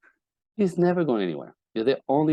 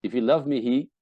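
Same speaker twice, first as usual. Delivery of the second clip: high, loud hurt complaint; hurt wife's reproach; 5 semitones higher, 4 dB louder than usual. Retold or imitated. Wife accusing her man, high and loud. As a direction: cry out to him like a wounded wife. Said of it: "you're hypersensitive to".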